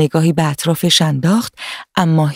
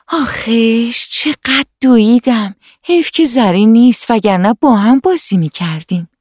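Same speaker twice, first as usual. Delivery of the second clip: put-on relieved little girl; 5 semitones higher than usual. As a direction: breathe out like a tired happy little girl. Hana rests under the tree. (دختربچهٔ خسته و آسوده، با آهی کشیده)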